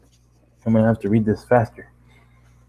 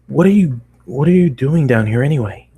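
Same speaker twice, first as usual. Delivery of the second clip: startled question; 4 semitones higher, 5 dB louder than usual. Acted. Narrator voices own startled question.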